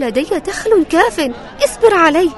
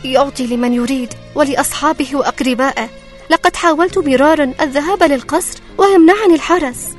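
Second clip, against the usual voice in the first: higher, pleading poor widow; 11 semitones higher, 4 dB louder than usual. Acted. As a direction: ask humbly like a poor widow. Widow talks to disguised king.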